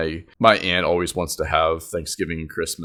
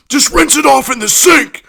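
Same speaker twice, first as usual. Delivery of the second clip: high, loud shouted order; mock exasperated yell; 9 dB louder than usual. Relative chimes in about rinsing turkey, exasperated mock yell. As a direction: imitate a relative hollering instructions.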